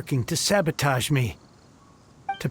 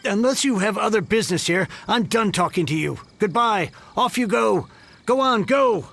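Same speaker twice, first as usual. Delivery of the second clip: impatient dismissal; 4 semitones higher than usual. Acted. Grouch shooing the visitors out, getting pushier. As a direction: shoo them out, each word pushier.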